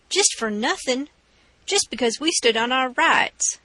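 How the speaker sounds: mocking, cocksure outlaw voice; gloating robber. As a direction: lord it over the man on the floor. Robber gloats over bound man.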